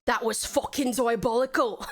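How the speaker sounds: lightly mocked-up Cockney British boy, laughing; Cockney accent. Streamer jokes about an Aussie persona, playful Cockney accent. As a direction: do a rough Cockney lad for laughs. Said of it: "more like a Cockney British boy".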